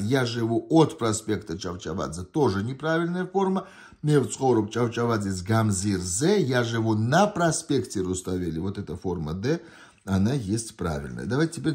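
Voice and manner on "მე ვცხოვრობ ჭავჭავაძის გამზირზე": fast test-item reading. Shown as a demonstration. Teacher reading a Georgian test item fast. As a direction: rattle off the Georgian line quickly.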